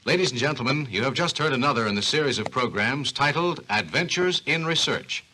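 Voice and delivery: radio announcer. Acted. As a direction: close the show like an old radio host. Program closing announcement.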